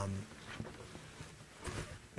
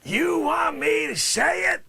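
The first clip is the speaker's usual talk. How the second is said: indignant shout; 17 dB louder, slower than usual. Acted. Witness yelling back at lawyer.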